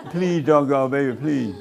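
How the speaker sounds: laughing imitation of a begging lover; mock pleading through laughter. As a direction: beg them to stay while cracking up. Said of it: "they drag you all to the door".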